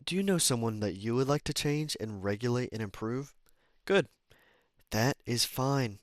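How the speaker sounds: measured, clearly projected book reading; deliberate read-aloud delivery; audiobook narration. Acted.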